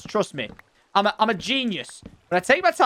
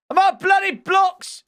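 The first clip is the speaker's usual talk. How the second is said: exasperated shout; 12 semitones higher, 5 dB louder than usual. Real, not acted. Running out of blocks.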